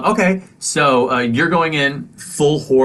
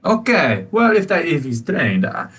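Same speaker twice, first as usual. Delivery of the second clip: high, grudging and flustered; reluctantly allow the service horse; flustered shopkeeper; 5 semitones higher than usual. Acted. Shopkeeper grudgingly accepting the service horse, high and flustered. Shopkeeper keeps talking in character.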